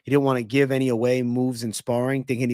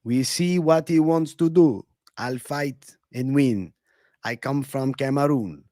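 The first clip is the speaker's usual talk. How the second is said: put-on slow, heavy Cameroonian-accented drawl; slow and heavy, like a fighter at a presser; lightly accented Francis Ngannou; Ngannou impression; slower than usual. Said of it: "Do an Ngannou impression".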